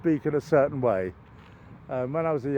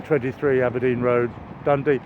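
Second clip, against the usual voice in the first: fake Scottish accent; 3 semitones lower than usual. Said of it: "Scottish and plausible".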